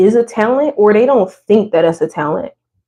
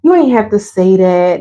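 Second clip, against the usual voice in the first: shy, modest deflecting of a compliment; bashful brush-off; slower than usual. Retold or imitated. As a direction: wave off the praise, a little embarrassed. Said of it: "We're like".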